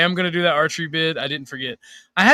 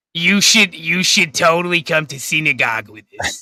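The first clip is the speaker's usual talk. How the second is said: put-on deep, nasal, throaty voice; 4 dB louder than usual. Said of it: "She's like".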